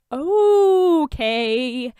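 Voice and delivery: Tony silencing Bruce; cutting in. A narrator's reading. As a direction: stop him mid-rant.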